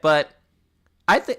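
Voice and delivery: normal talking voice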